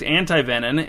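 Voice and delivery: "antivenom" ending in an N, as antivenin; pedantic pronunciation. Real, not acted. Host insists on the correct term, "antivenom" said with a final N. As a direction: say "antivenom" as an-tie-VEN-in, final N. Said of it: "I said antivenom with an N".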